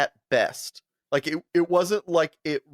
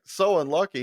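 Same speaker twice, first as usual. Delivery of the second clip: incredulous echo; 2 semitones higher than usual. Retold or imitated. Friend repeating the driver's words back, questioning disbelief. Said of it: "I was like".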